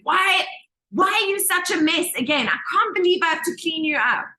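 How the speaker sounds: scolding mom. Retold or imitated. Mom shouting at a muddy child, mock scolding. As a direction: imitate a mother telling off a muddy child. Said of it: "your mom is shouting at you".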